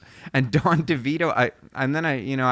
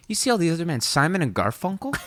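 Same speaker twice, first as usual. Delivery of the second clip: high, incredulous-sounding rising question; fired-up producer; 7 semitones higher, faster than usual. Retold or imitated. Retelling the producer comparing other acts, fired up. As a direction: imitate a keyed-up record man calling out rivals. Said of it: "He's so fired up".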